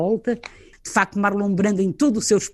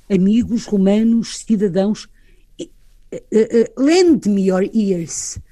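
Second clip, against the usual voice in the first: quoting Mark Antony; 3 dB louder, slower than usual. Retold or imitated. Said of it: "E ele diz".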